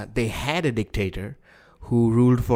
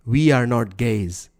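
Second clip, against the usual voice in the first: Robert Mugabe; slower than usual. Acted. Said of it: "Robert Mugabe is famous for ... said".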